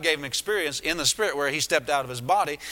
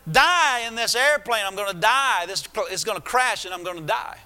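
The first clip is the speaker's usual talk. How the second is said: mildly raised, wailing demon voice; hammed-up doom cry, louder at first and easing off; screechy voice; 5 semitones higher, 3 dB louder than usual. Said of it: "and the screechy voice said".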